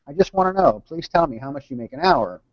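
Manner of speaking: mild plea that eases back down; pleading son. Retold or imitated. Young son begs dad to tell him, lightly voiced pleading.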